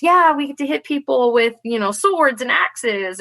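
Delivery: excited recruiter. Retold or imitated. Women telling a newcomer about hitting people, excited. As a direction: pitch it up like an eager recruiter. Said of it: "they were so excited".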